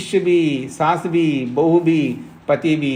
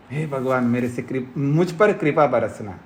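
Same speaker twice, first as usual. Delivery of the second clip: mock pious prayer; 3 semitones lower than usual. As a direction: murmur it like a devotee glossing over his sins. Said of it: "यही बोलेगा ना".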